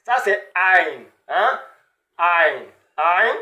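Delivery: ein from the throat, slowly; throaty ein. Shown as a demonstration. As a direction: ein prononcé avec la gorge.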